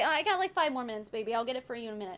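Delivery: a tender mom asking for a few minutes; gentle to child. Retold or imitated. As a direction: reassure the little one softly. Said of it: "I'll say".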